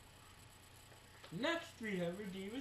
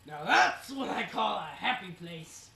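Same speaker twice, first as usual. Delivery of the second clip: imitating Kane; 9 dB louder, slower than usual. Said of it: "Kane then looks and goes".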